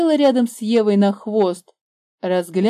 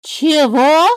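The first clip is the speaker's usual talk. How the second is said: higher, louder puzzled cry; surprised; 8 semitones higher, 8 dB louder than usual. A narrator's reading. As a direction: ask in surprise. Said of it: "в один голос спросили".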